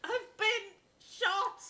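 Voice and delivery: slow, stretched out melodramatic wail; milk the gunshot wound; hammed-up cry. Witness shot onstage wails to the inspector.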